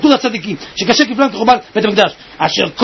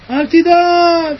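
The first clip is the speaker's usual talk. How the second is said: הרגעה; 4 semitones higher, much slower than usual. Retold or imitated. Answering the people's retold worry.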